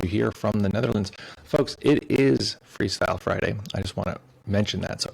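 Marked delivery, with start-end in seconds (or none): 1.4-3.6 slow, louder showman announcement; drawn-out hype call to the viewers; announcer hype. Acted. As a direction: sell the theme like a radio host. Hosting stream, announcing the theme.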